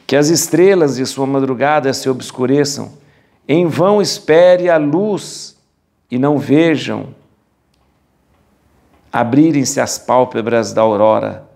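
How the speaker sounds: solemn Bible reading with measured pauses; scripture reading. Acted. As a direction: declaim the verses phrase by phrase, leaning on key words. Reads the scripture passage aloud. (leitura bíblica solene e declamada)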